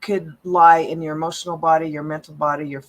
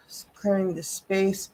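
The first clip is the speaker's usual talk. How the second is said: soft whisper; 4 dB quieter than usual. Real, not acted. Whispered ritual words in blessing.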